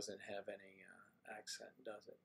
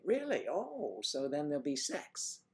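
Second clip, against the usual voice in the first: mock surprise; 3 semitones higher than usual. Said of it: "someone said".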